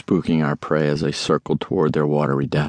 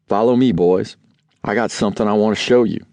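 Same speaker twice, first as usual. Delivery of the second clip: excited dad; 4 semitones higher than usual. Retold or imitated.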